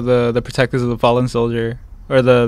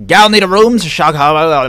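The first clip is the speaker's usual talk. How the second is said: slow, higher drawling outlaw voice; old-timey drifter voice; 4 semitones higher, 6 dB louder, slower than usual. Retold or imitated. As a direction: ham up a seventies roadside drifter. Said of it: "something a powder ganger would say".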